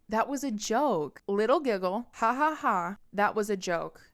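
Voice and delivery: slow, loud, sheepish brush-off; mocking boyfriend. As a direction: play him laughing it off. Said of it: "look at me and go".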